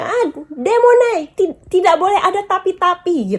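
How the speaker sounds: high, lightly scolding voice; a touch of a stern stranger's reprimand; imitating angry scolder. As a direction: mimic a stranger telling her off. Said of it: "gitu katanya".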